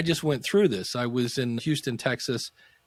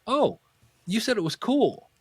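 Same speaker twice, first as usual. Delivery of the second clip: high-pitched mock innocent excuse; sheepish client; 9 semitones higher than usual. Client excusing his purchase to the consultant, sheepish. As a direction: imitate a client explaining himself in a raised voice.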